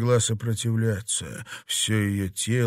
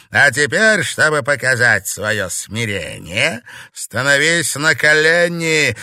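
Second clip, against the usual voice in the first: put-on loud, threatening old witch; harsh, commanding villainess; menacing witch mistress; 3 semitones higher, 7 dB louder than usual. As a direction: order the defiant novice down with raised voice.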